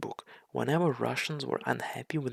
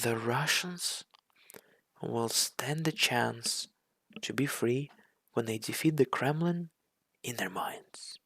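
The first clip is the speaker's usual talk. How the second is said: slow, drawn-out mimicry of the speaker; mocking repeat; slower than usual. Vlogger mocking the president's line, slow and scornful. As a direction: parrot him with contempt.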